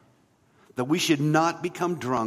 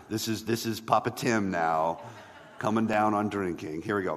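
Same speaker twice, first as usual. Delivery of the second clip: a hint of a mock-stern fatherly preacher, lower; lightly voiced stern father figure, lower; Papa Tim big voice; 5 semitones lower than usual. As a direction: playfully put on a stern dad voice, laughing. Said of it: "That's why I got the big voice".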